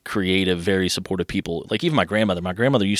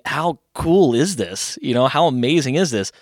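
drawn-out, higher-pitched wonder; awed amazement; 4 semitones higher, slower than usual. Retold or imitated. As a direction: recall being blown away as a kid. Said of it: "I was blown away by it".

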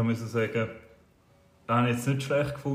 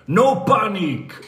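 "No panic!" called out high, loud and slowly stretched; cheerful shout; 8 semitones higher, 6 dB louder, much slower than usual. Retold or imitated. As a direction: sing it out cheerfully like a falling acrobat who doesn't care. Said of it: "oha fröhlich gerufen". (fröhlich gerufen, hoch, laut und langsam gedehnt)

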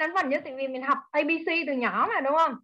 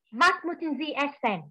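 German phrase; slower than usual. Shown as a demonstration. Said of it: "có mấy câu thôi à".

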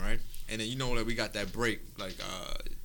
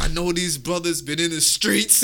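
slow, louder, high mock sermon; imitated church preacher; 4 semitones higher, 7 dB louder than usual. Pastor addresses young brothers, slow hammed-up preaching. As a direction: preach it with exaggerated concern.

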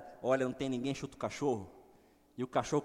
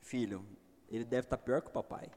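calm fatherly reply. Retold or imitated. Father calmly answers son.

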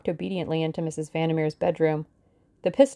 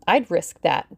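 cheerful; 5 dB louder, slower than usual. Acted. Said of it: "said Missus Vandermeer cheerfully".

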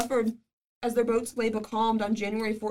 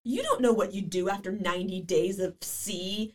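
slow, earnest; 4 dB louder, slower than usual. Retold or imitated. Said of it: "And I'm like".

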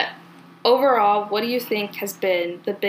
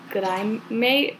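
Australian "Good eye, mate" with a rising "mate"; lightly voiced Australian "mate"; mock Aussie greeting; Australian accent; slower than usual. Shown as a demonstration. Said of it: "it sounds like".

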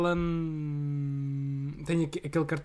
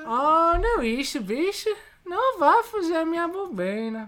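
high, laughing Brazilian accent; laughing through a Nordeste Brazilian accent; 10 semitones higher, 4 dB louder, slower than usual. Shown as a demonstration. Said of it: "sabes imitar bué da bem".

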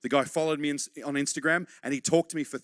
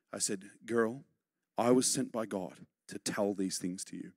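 1 hushed storytelling; 8 semitones lower, 7 dB quieter than usual. Real, not acted.

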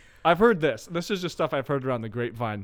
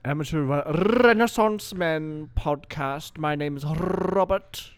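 slow, rolled-R show introduction; hammed-up announcer; 3 semitones higher, slower than usual. Host announces the podcast and his name, hammed-up intro. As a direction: draw out every word grandly.

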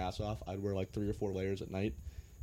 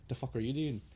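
rough attempt at an Irish accent, pitched up; bad Irish accent; 4 semitones higher than usual. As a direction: try an Irish accent, not quite landing it. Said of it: "which wasn't my best accent".

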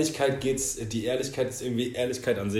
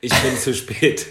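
slow blunt truth; 5 dB louder, much slower than usual. Pretend.

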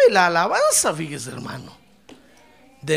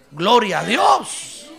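shout of praise; 4 dB louder, much slower than usual. Shown as a demonstration. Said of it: "es la de gritar".

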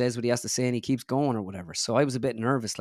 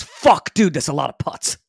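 loud, high burst of mock disbelief; stunned exclamation; 4 semitones higher, 9 dB louder, slower than usual. Golfer retells Tiger's reaction to his putting, stunned outburst. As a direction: blurt it out as an astonished friend's reaction.

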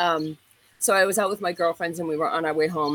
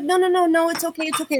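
high, louder imitation of a frantic friend pleading; 10 semitones higher, 4 dB louder than usual. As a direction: mimic the panicked friend begging her to let it go. Friend begging Tracy to stop.

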